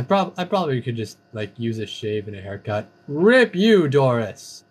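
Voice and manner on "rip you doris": mock lament. Mock mourning a kill.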